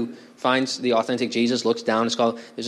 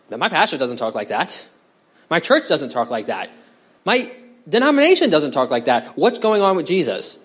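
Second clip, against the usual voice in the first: indignant objection; 4 semitones higher than usual. Acted. Churchgoer's indignant objection voiced.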